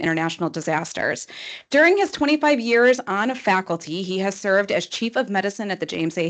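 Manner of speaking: brisk, rattled-off formal introduction; real fast. Real, not acted. Introducing a doctor with a long list of accomplishments, real fast. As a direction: race through the speaker's credentials. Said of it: "you're gonna hear my Chicago voice go real fast".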